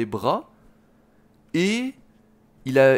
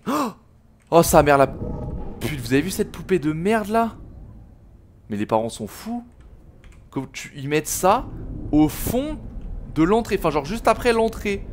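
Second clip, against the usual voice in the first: high, loud freaked-out shouting; scared horror game streamer; 7 semitones higher, 4 dB louder than usual. Real, not acted. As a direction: shriek at the creepy doll. Creepy doll startles him.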